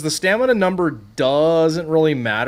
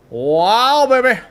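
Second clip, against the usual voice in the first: excited; 7 semitones higher, 4 dB louder, slower than usual. Real, not acted. Player admires a creature, second time.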